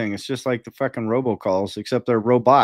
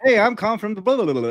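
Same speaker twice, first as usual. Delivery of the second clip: higher-pitched mock sales opener; spam caller spiel; 7 semitones higher, faster than usual. Robocaller pitching to an annoyed man, imitated spiel. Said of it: "it starts going in the spiel".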